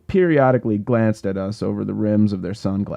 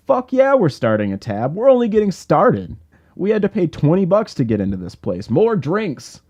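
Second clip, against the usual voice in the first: much higher and louder rowdy snarl; 9 semitones higher, 4 dB louder than usual. Acted. Hooper demanding more drinks from the bartender, loud snarl. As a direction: bark it at her, pushy and drunk. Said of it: "Hooper snarled".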